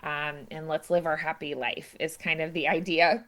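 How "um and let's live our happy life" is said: understated soothing plea. Retold or imitated. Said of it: "trying to soothe him".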